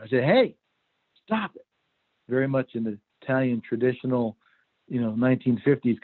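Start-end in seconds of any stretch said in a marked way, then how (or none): 0.2-1.6 higher, louder retold warning to his son; louder scolding. Dad telling his son to stop hitting, louder and higher. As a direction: raise it into a sharper rebuke. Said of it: "and I said louder".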